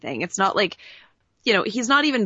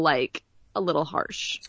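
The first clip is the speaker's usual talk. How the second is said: slow hushed whisper on the last words; whispered aside; 3 dB quieter, slower than usual. Real, not acted. A podcaster hushing a comment about the harsh promo line, whispered. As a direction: drop to a whisper, half joking.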